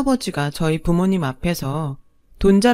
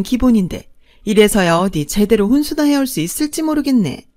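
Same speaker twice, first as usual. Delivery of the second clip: higher, louder, looking down on them; haughty sneer; 4 semitones higher, 4 dB louder than usual. Acted. Second wife mocking the bride's parents, haughty and loud. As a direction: sneer at the bride's humble family. Mistress mocks bride's family.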